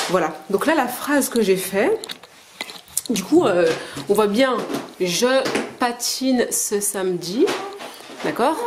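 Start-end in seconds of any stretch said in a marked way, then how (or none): 5.0-7.5 slow, with a pause after Je; syllable by syllable. Shown as a demonstration. Mother showing her children a sentence, slow and separated. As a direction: sound out the sentence slowly, one syllable at a time. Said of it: "C'est plusieurs syllabes".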